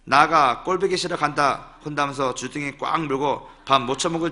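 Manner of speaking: comic poem in Jeolla dialect; playful, emphatic Jeolla accent. Shown as a demonstration. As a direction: recite it in earthy Jeolla satoori. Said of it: "전라도 버전은 이렇습니다".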